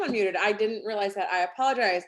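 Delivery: talking with the hiccups; hiccuping between words. Real, not acted. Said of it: "And I have the hiccups".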